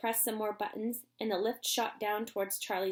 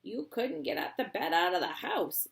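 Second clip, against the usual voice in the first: put-on old man's voice, doubtful; an old man objecting; Grandpa Joe voice; 3 semitones higher than usual. Shown as a demonstration. Grandpa Joe doubts the bed will fit, old voice. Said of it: "I didn't do my Grandpa Joe voice".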